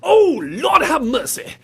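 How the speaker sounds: high, loud hammed-up wail; mock horror. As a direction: cry for mercy in mock shock. Mock collapse at shocking comment.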